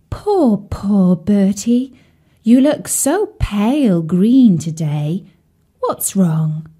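lightly voiced swan, slow and pitying; a gentle swan fussing over a sad friend; kindly swan voice. Swan Sadie speaking to frog.

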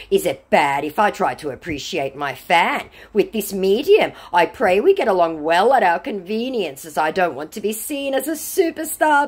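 mock the scammer's stilted formality. Scammer pleading his case to a doubter, high mock-earnest voice. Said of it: "said our scammer".

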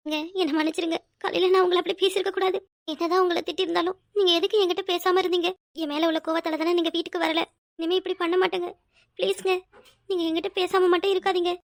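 soft, tearful pleading; tearful apology. Acted. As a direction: beg forgiveness through restrained tears. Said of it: "முதல்ல நீ அழறத நிப்பாட்டு". (அழுதபடி மன்னிப்புக் கேட்கும் மென்குரல்)

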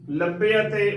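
ਲੱਭੇ ਅਤੇ as "labbe-ate", the half y opened to e-a; ਲੱਭੇ ਅਤੇ as one carefully voiced word; shown pronunciation. Shown as a demonstration. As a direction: say ਲੱਭੇ ਅਤੇ with separate e and a vowels. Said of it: "ਉਚਾਰਨ ਕਰਨਾ ਹੈ".

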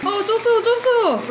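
loud high call across the kitchen. Real, not acted. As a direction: shout the name to get attention. Calling out to partner.

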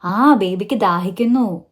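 gentle recast. Shown as a demonstration. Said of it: "മറ്റൊരു രീതിയിൽ പറഞ്ഞാലോ".

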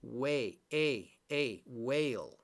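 whale broken down to "way", then A, then whole; long A. Shown as a demonstration. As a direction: draw out the long A that sits inside whale. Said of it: "it makes the A long".

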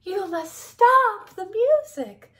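loud, high, drawn-out demand; slow, high-pitched, fed-up order; exasperated mouse. A narrator's reading. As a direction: insist slowly in a high mouse voice.

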